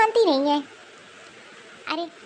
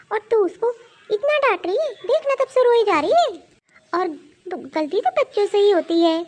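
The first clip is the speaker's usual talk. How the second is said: scolding; 4 dB louder than usual. Acted. Grandmother scolds loudly.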